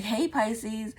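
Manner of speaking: lightly voiced psychic reading; mock psychic reader. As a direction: mimic a gushing psychic calling out a sign. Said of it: "people who are always saying".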